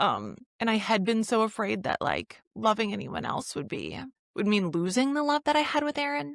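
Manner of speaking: talking through tears, high and swooping. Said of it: "I'm gonna cry".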